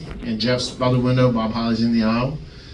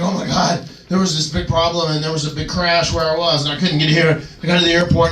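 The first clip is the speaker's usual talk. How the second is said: higher, hurried excuse; lightly acted panicked latecomer; mock frantic; 4 semitones higher than usual. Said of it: "he's all frantic".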